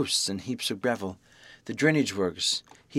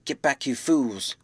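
muffled; 2 semitones higher, slower than usual. Acted. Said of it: "cried the muffled voice of Kemp".

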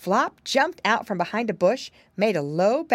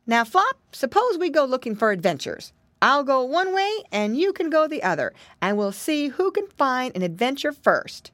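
put-on higher-pitched little boy voice; eager piggy boy; 7 semitones higher than usual. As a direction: propose an adventure like an eager piglet.

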